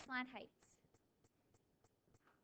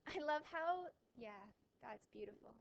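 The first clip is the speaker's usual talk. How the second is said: sarcastic; 4 dB quieter than usual. Real, not acted. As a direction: fake admiration that drops to a soft aside. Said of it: "I'm being sarcastic".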